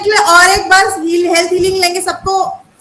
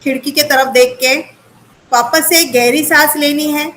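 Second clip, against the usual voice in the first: guided breathing meditation; 2 semitones lower than usual. Acted. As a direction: lead them gently through each breath. (धीमी शांत ध्यान वाली आवाज़)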